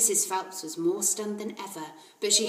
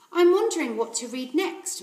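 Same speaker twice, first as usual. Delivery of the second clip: put-on little girl; 7 semitones higher, 7 dB louder than usual. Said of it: "Matilda said".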